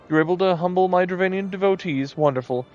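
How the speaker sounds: lightly voiced preening moogle; a hint of a pompous little moogle; vain moogle voice. Reads moogle dialogue aloud.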